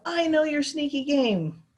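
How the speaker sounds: slow, high menacing snarl. A narrator's reading. Bald foreman accusing Roy, slow snarl. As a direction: drag out the threat. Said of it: "the bald man snarled".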